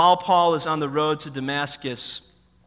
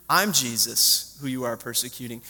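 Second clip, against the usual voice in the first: quiet voice of Jesus; 8 semitones lower, 6 dB quieter than usual. Retold or imitated. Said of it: "Jesus comes and says".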